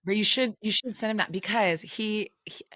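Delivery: conspiratorial whisper. Real, not acted. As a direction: whisper it as a secret. Conspiratorial suggestion about husband.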